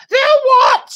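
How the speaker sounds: high, loud shrieked question; screaming. Acted. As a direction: shriek in alarm. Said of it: "screamed Missus Twit".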